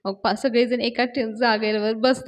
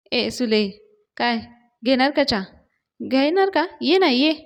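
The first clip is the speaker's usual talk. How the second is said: mocking, teasing invitation rising louder; 3 dB louder than usual. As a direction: needle her with a sing-song offer of tea. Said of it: "सुलक्षणाला परत डिवचतात".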